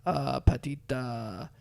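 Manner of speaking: slow, halting attempt at French; struggling French. Mom ordering a sandwich at Subway in halting French. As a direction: grope slowly through a French order. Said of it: "trying to speak French".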